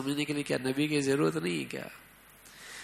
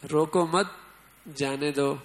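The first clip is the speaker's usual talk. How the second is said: "روکو مت" as one unit, pause, then "جانے دو"; pause after مت. Shown as a demonstration. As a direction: break "روکو مت. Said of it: "پڑھنے کے اندر معنی میں اتنی تبدیلی".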